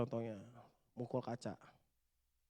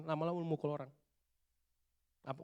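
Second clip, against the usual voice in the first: ordinary delivery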